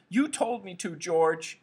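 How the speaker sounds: high, plaintive wail; miserable. A narrator's reading. Cowering Lenny excuses himself to George, miserable. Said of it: "he said miserably".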